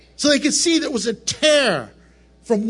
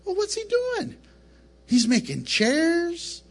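puzzled scoffing Satan, voice pitched higher; Satan sneering at the carpenter, lightly raised; mocking Satan; 6 semitones higher than usual. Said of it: "he's like".

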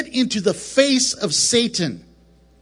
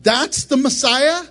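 Satan scoffing, voice pitched higher; mocking Satan; 5 semitones higher than usual. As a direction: sneer at the baby Messiah in a lightly raised voice. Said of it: "Satan's probably going".

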